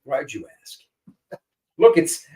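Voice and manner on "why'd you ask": whisper. Real, not acted. Cheeky whispered reply.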